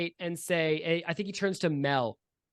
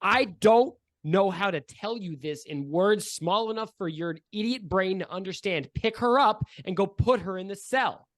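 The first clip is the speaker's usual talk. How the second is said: exasperated boss; 3 semitones higher, 4 dB louder than usual. Acted. Boss losing patience.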